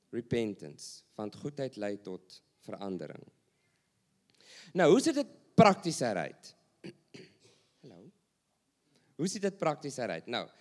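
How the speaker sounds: ordinary talk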